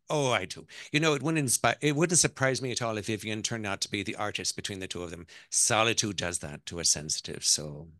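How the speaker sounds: Irish matriarch, assured; Irish accent. Acted. Mother-in-law predicts her grandson's future, Irish accent. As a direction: pronounce it confidently in an Irish accent. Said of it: "that's my Irish accent".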